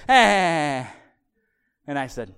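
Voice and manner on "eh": loud imitated toddler "eh"; toddler noise. Toddler answering dad's offer of the phone, imitated wordless bleat. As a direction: blurt a drawn-out toddler bleat. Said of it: "he looks at me and he goes".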